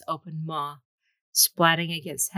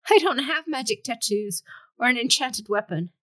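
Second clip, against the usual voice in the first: losing control; 6 semitones higher than usual. Acted. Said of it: "He knew that he was losing control".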